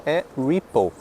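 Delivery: repo said "ri-po"; correct abbreviation. Shown as a demonstration. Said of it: "falando da abreviatura".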